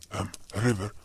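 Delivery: soft, hesitant, worried question; hesitant hush. Acted. Cop quietly asks healer about the face scar. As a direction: ask quietly, afraid of the answer.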